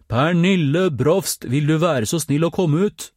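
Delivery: very slow, high, loud bellow; as loud as he could. A narrator's reading. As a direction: bellow the name at full power. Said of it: "Så høyt han kunne". (roper så høyt han kan)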